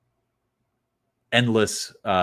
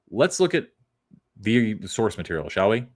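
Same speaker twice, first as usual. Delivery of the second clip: mock teacher; 2 semitones higher than usual. Mock teacher invites look.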